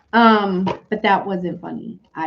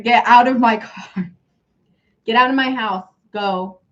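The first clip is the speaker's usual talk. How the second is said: raised, forceful mock order; kicking someone out; 3 semitones higher, 5 dB louder than usual. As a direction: throw them out, voice pushed up. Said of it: "you may be kicking someone out".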